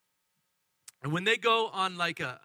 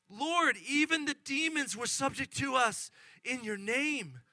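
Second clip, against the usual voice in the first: raised pitch, amazed delight; joyful report; 5 semitones higher than usual. Acted. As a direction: read it out like happy news. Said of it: "returned with joy, saying".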